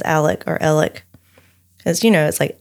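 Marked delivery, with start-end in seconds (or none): 0.0-1.0 Alec first as AL-ick, then as ELL-ick; his own pronunciation. Shown as a demonstration. Host shows how he says it, Alec in two variants. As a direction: say Alec both ways, no X sound. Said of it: "he pronounces it himself as".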